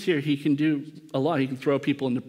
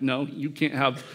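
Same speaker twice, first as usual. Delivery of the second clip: mock protective refusal. Peter imagining Jesus telling Satan no, mock protective. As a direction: stand up for your little favourite, lilting upward.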